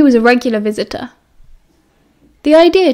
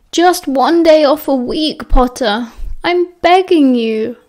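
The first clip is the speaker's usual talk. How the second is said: groaning plea; 3 semitones higher, slower than usual. Acted. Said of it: "he groaned".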